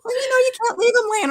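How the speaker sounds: high, laugh-choked words. Real, not acted. Hostess defending her stapler hoard to the chat, laughing hard. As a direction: laugh through it, barely holding together.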